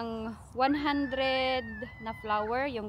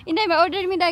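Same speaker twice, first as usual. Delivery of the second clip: mock customer, repeated; 5 semitones higher, 8 dB louder, much faster than usual.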